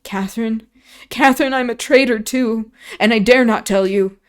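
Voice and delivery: put-on terrified boy begging Catherine not to leave; desperate pleading. A narrator's reading. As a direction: plead for your life through tears. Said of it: "he sobbed".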